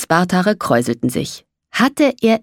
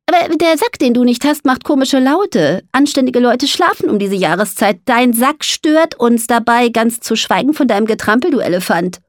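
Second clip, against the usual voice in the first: higher-pitched, indignant little mole; grumpy mole, scolding; 5 semitones higher than usual. Acted. Mole complains of noise in winter sleep, grumpily. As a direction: scold the big dragon in a high voice.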